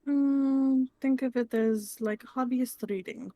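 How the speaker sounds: careful, deliberate advice with spaced phrases; measured mentor. Acted. Naya urging a kid to study outside school, measured mentor. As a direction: advise like a patient mentor, every word distinct.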